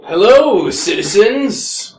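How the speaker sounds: in-character greeting. Acted. Player greets the characters in role.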